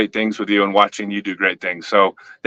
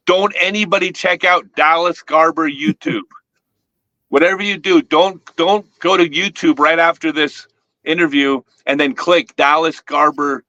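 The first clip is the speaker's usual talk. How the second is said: higher-pitched, playful mock warning; 5 semitones higher than usual. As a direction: warn them off while plainly plugging it. Mock warning as reverse-psychology plug.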